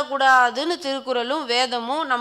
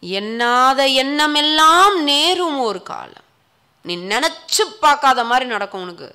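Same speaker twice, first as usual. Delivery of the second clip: ominous warning; 6 dB louder than usual. Acted. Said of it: "பயமுறுத்துறாரு".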